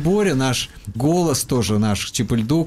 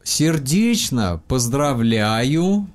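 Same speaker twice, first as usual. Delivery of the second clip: very slow, word by word; slow dictation; much slower than usual. Shown as a demonstration. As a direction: dictate each word slowly. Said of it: "Я буду непонятно говорить".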